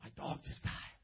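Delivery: soft, whispered grief; sad mumble. Retold or imitated. Pastor voicing a sad man whose dog died. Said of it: "He'd be like".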